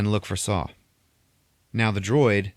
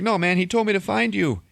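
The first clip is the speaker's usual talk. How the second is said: frantic insisting; 13 semitones higher, 4 dB louder than usual. Retold or imitated. Bodhi insists to Saw.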